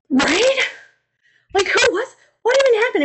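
high, incredulous rising voice; baffled. Retold or imitated. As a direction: sound utterly confused. Dazed Adam after rejection.

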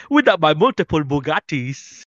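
lightly put-on African accent, bragging; a hint of African accent on "Without my multiple Bugattis"; mock African accent. Friend imitating the Bugatti line in mock African accent. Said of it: "it's like with an African accent".

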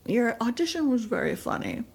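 hint of an impression of a show boss; lightly put-on producer voice; Lorne Michaels. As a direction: secondhand caricature, lightly done. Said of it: "I'm doing an impression of Dana Carvey".

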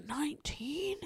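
a disbelieving whisper; whispered shock at the age. Real, not acted. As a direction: hush it like a scandal. Shocked aside about a teen islander.

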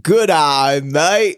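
attempted Australian greeting; Australian accent. Cohost taking an accent challenge, amateur Australian accent. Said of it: "accent challenge. Australian, go".

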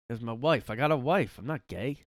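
mock insistent comic, swooping pitch; Sebastian Maniscalco. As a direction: protest in a hammed-up stand-up voice. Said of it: "I'm Sebastian".

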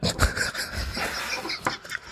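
a whispered creepy chuckle; quiet breathy Joker laugh. Retold or imitated. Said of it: "That's pretty good".

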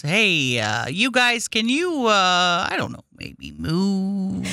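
gentle Matt impression. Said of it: "he has the best voice".

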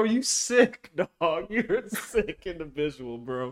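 high bursts of laughter; cracking up mid-sentence; laughing. Real, not acted. Laughing at friend.

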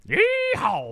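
very high, loud cowboy whoop; yeehaw. Acted. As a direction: holler it like a cowboy. Cheering the next episode.

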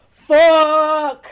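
loud frustrated curse; frustrated shout. Real, not acted. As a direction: blurt it out angrily. Frustrated outburst searching word.

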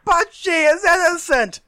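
high, slow pleading cry; pleading villager. Acted. Acting out witch-burning crowd.

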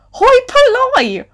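very high, drawn-out cry of disbelief; incredulous exclamation. Real, not acted. Reader mocking her own word choice, incredulous. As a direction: screech the odd word slowly in outrage.

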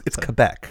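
"Quebec" said kuh-BECK, no w; corrected pronunciation. Shown as a demonstration. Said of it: "In America, we say Quebec".

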